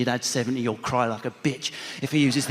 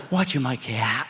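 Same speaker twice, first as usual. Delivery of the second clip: Essex dad; 3 semitones lower than usual. Retold or imitated. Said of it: "Three syllable Essex out".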